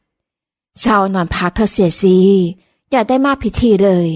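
slow, gentle words to a sick daughter-in-law; lightly voiced kind elder, unhurried; gentle mother-in-law. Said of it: "น้ำเสียงอ่อนโยนจากมารดาสามี".

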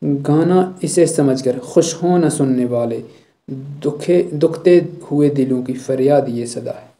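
slow, grave recital; poem recitation. Acted. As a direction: recite the closing couplet slowly. Teacher recites poem verse.

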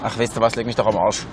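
low, soft disgusted swearing; muttered curse. Real, not acted. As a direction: curse it under your breath. Frustriert abgewandt geflucht. (leise gemurmelter Fluch)

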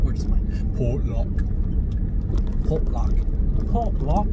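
practicing a British accent. Shown as a demonstration. Driver practicing for fun, amateur British accent. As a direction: try out a British accent on the words. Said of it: "I practice my British accent".

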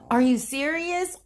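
retold girls pleading through tears; tearful girls. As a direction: play the scared girl close to tears. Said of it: "With tears running down their face".

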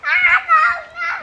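high laughing no, no; laughing protest. Real, not acted. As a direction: laugh it off, embarrassed. Embarrassed after calling him Daddy.

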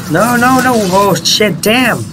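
high excited shrieks; shrieking jackpot winner. Real, not acted. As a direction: squeal it out, thrilled and frantic. Gamer shrieking at boss fight.

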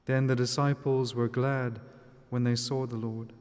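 measured, solemn scripture reading; Gospel reading. Acted. Reads the Gospel aloud.

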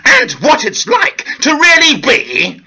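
theatrical, sing-song channel host; a hammed-up, woe-is-me actor presenting his show; hammy actor host. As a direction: overdramatic luvvie presenter with mock tears. Hosts his comedy channel persona.

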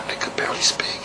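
unvoiced whisper showing how weak it was; old whispered voice. Shown as a demonstration. Patient showing the interviewer her former voice, in a whisper. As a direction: demonstrate the old, barely-there voice. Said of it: "this was my voice".

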